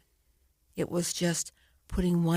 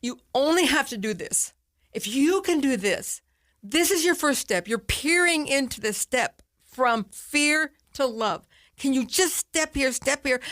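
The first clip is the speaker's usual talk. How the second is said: coaxing herself; 7 semitones higher than usual. Retold or imitated. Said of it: "I'm like".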